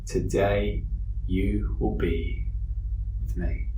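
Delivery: Jesus comforting the dying criminal, slow and tender; tender promise. Retold or imitated. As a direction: lay each word down gently like a promise. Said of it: "I want you to hear Jesus' words".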